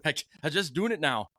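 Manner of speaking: lightly imitated Irish lilt; mock Irish accent, laughing midway. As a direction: slip helplessly into a playful Irish accent. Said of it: "couldn't stop my Irish accent".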